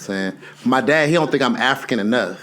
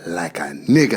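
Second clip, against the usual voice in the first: gruff dad voice; 2 semitones lower, slower than usual. Retold or imitated. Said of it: "he busted through the door".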